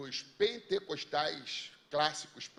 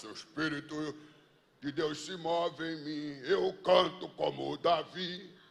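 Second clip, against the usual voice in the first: mimicked deep, thickened voice, louder and slower; 3 dB louder than usual. Speaker retells a woman whose voice changed as she spoke; retelling a deepened voice. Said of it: "começou a engrossar a voz".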